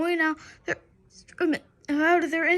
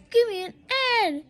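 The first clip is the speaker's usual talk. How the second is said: cheer shout; 6 semitones higher, 3 dB louder, faster than usual. Acted. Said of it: "shouted the cheerleaders".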